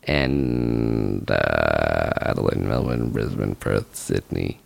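very low, creaky trailing list; low drone. Real, not acted. Host running through tour cities, low creaky drone. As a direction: let the voice sink to a creak.

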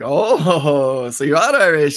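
lightly imitated Irish woman, intrigued; imitated Irish accent. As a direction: lilt it like a mock Irish local. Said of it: "and she had the accent".

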